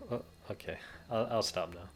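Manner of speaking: small, deflated stammer, dropping the put-on accent; dejected. Subaru giving up his accent after Rem's verdict, dejected. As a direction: give in quietly, crestfallen. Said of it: "dejectedly stops with the poor accent".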